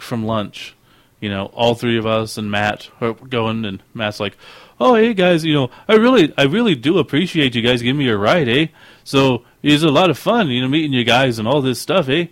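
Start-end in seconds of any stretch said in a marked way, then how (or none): 4.8-12.3 put-on much higher and louder, friendly Canadian accent; thick Canadian accent with eh. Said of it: "That's the Canadian accent".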